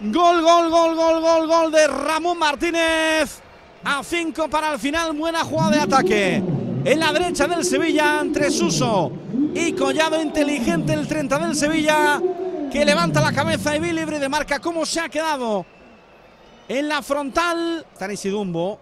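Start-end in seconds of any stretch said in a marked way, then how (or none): 0.1-3.4 shouted, drawn-out goal call; breakneck goal commentary. Real, not acted. Sevilla goal called live. 3.9-17.9 high, loud fired-up replay; breakneck goal commentary. Real, not acted. Lively replay after the goal.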